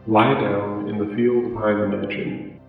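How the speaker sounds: slow, eerie, distant note voice. Acted. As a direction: read it out slow and ghostly. Reading the mysterious paper note.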